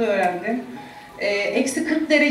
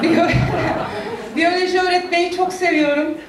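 laughing; 5 semitones higher than usual. Real, not acted. Laughs while naming her subject.

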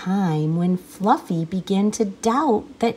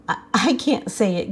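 giggling; faster than usual. Acted. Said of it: "giggled the rhinoceros".

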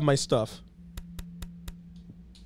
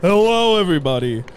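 Markiplier; 5 dB louder than usual. Acted. Joking about video intros, Markiplier-style greeting. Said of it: "My name is Markiplier".

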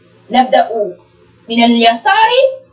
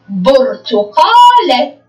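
slow drawn reading; 3 semitones lower, much slower than usual. Shown as a demonstration. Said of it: "في آخر الكلمة".

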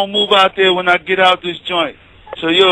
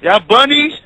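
teasing; 6 semitones higher than usual. Real, not acted. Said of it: "y'all sound like some bunnies".

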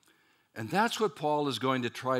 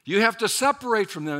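rising, louder scolding, building to a high push; stern rebuke; 4 semitones higher, 6 dB louder than usual. Retold or imitated. Judaizers scolding Peter for eating with Gentiles, rising scold. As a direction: scold him for breaking the kosher laws.

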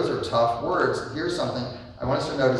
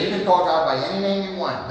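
mocking quote; 4 semitones higher than usual. Quoting people he disagrees with.

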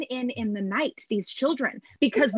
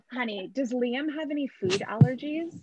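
mock sweet menace. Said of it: "Let Mama try one more time".

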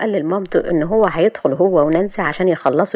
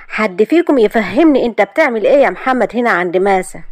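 sharp; 4 semitones higher, 3 dB louder than usual. Acted. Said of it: "وقالت أحلام بحدة".

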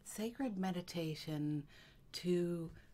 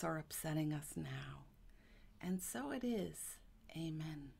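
gentle prayer, slowing on the pleas; spoken blessing. Real, not acted. Healer saying a blessing for her friend, in gentle prayer. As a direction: say a heartfelt blessing, unhurried. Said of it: "may I say a blessing for you".

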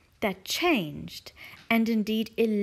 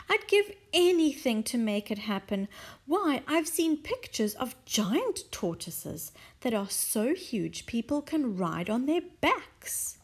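wistful Mrs Silver; 2 semitones higher than usual. Acted. Mrs Silver dreaming aloud.

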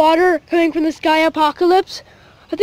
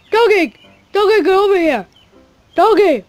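raised voice, calling out; calling a dog; 3 semitones higher than usual. Pretend. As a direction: call the dog over.

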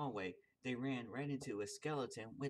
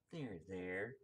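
soothing comfort; 5 semitones lower, 3 dB quieter than usual. Acted. Comforting crying man.

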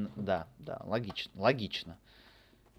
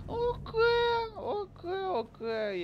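squeaky okay; 6 dB louder, much slower than usual. Pretend. Squeaky reaction in game.

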